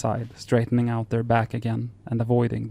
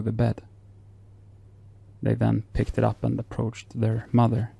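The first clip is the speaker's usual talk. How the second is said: story narration. Acted.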